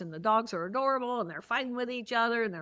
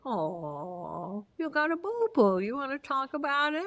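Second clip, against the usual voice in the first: sympathetic friend; 3 semitones higher than usual. Retold or imitated. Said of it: "And they'll say".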